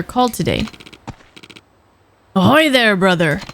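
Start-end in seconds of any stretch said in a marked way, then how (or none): 2.3-3.4 pirate voice. Acted. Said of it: "why does it sound like a pirate?".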